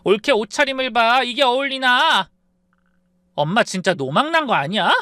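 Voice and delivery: high, loud screeching daughter; shrill outburst. Acted. Spoiled daughter yelling at her mother over a bag, loud and high. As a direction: yell at mom like a spoiled brat. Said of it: "소리를 빽질렀습니다".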